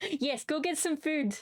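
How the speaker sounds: a half-hearted menacing order; scary voice. Pretend. Streamer ordering chat to eat, slow mock stern. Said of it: "It's not scary".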